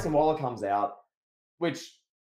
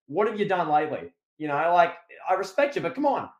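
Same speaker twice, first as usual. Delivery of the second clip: higher, lightly voiced cocky taunt at a legend; cocky heel taunt; 3 semitones higher than usual. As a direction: needle the veteran, brash and smug. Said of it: "he's like".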